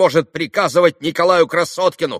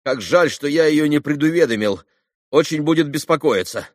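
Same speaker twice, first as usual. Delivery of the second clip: rapid patter; 5 semitones higher, 6 dB louder than usual. A narrator's reading. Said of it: "проговорил он скороговоркой".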